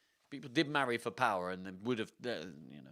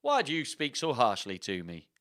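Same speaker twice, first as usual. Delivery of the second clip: mildly wounded Yorkshire suitor; understated Yorkshire protest; Yorkshire accent; 3 dB louder than usual. Acted. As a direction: plead lightly in a Yorkshire accent. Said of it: "going from Swedish to Yorkshire is tricky".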